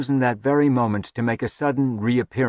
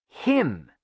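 dark; 2 semitones higher than usual. A narrator's reading. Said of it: "Lirian said darkly".

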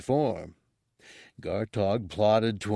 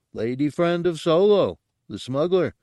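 higher, louder creature voice, contented; a pleased guard's snuffly report, pitched up; contented snuffle; 7 semitones higher, 4 dB louder than usual. A narrator's reading. Guard reports gossip to the chef, contented. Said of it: "and snuffled contentedly".

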